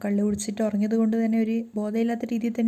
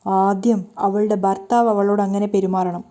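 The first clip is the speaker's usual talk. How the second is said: crying while speaking; 4 dB louder than usual. Acted. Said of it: "കരഞ്ഞുകൊണ്ട് തന്നെ രേവതി പറയാണ്".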